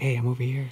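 soft, hushed half-whisper. Imagining howler monkeys calling out to each other: half-whispering.

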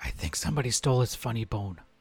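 hushed whisper. A player's character leans over with an aside to Ellie, whispering to Ellie. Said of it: "I'm going to whisper to Ellie".

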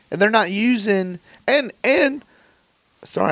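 agitated, breathless, high, worked-up stammering. Arguing about a show's final season with another speaker: worked up and breathless. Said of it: "I'm getting all hyperventilated".

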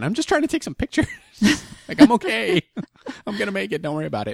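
shouted, pitched very high, loud and swooping. Retelling answering runners who urged them on near the marathon finish, retelling own yell. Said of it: "I'm like yelling".

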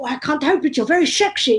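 poor, bad put-on Dutch accent. Retelling a man's reply, in a bad Dutch accent. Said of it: "this is going to do a bad Dutch accent now".

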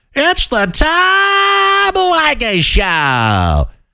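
very high, slow, swooping voice. Showing how a radio host still talks: imitating Tom Leykis. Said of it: "talking like that".

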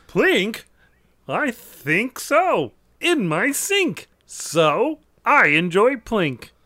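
high pitch with every word stretched out. Saying a product name as a joke ad, in a Kermit the Frog voice. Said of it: "You are the new Kermit the Frog".

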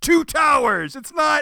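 nearly screaming, high and loud. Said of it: "I was nearly screaming at the screen".

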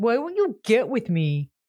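put-on teenager-sounding voice. Retelling a scene where Eddie pushes a girlfriend: imitating Eddie sounding like a teenager. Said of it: "he's sounding like a teenager".

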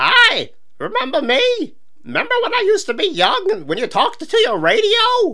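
put-on very high-pitched little old lady voice. Explaining older characters need a different voice, demonstrating a grandma voice. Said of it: "They have to use your grandma voice".

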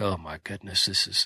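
low, soft, exasperated murmur.

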